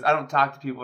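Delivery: flat deadpan brush-off. Retold or imitated. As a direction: say it dead-faced, no emotion. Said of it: "just deadpan".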